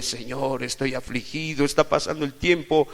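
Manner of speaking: acted prayer building to a loud, high cry; impassioned plea. Models a distressed plea to God. (súplica apasionada que sube hasta el grito)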